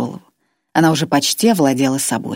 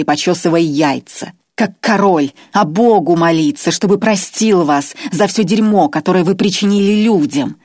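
higher, louder, righteous tirade; indignant Irma; 4 semitones higher, 4 dB louder than usual. Acted. Irma lashes out at the chained old man, indignant. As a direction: lecture him with moral outrage.

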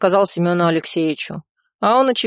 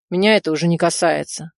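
ordinary delivery, nothing marked

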